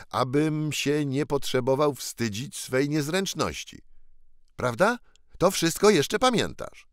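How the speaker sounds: put-on a boy urging another to remember; ragged prince's voice. Ragged boy reminding Tom of their meeting, lightly voiced.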